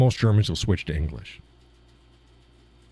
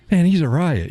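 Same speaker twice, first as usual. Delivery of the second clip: imitating German guys; 8 semitones higher, 4 dB louder than usual. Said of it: "These German guys are like".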